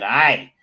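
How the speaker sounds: "I" said as a loud tag "eh"; Queensland sentence-ending eh. Shown as a demonstration. Host showing listeners his end-of-sentence habit, "I" as a Queensland "eh". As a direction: punch "I" out as a Queensland "eh". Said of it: "put the Queensland".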